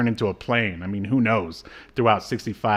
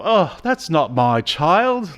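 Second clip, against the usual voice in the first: higher, slow, smug mock voice; mock James Bond Junior; 6 semitones higher, slower than usual. Mocking the hero, lightly voiced smug cad. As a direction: play him as a careless cad.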